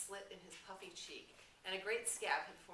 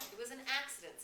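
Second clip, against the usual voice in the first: higher, abrupt blurt; sudden outburst; 7 semitones higher, 5 dB louder, faster than usual. A narrator's reading. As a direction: jump in out of nowhere. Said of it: "said Piggy suddenly".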